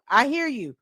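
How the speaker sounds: gentle echo of I hear you. Real, not acted. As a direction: settle back into the words. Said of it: "I hear you loud and clear".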